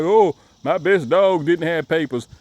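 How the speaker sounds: mock boastful quote; mocking a proud owner showing off; chest-out boast. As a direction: puff up and brag about the dog. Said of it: "trying to stick your chest out like".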